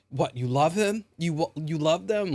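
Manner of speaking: high-pitched mock indignation; mildly acted angry disbelief; retold pissed off. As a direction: imitate someone appalled and pissed. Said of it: "he was really, really pissed".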